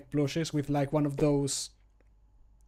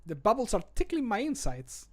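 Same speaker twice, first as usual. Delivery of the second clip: character voice line; 6 semitones higher than usual. Acted. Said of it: "when he's drinking the ale".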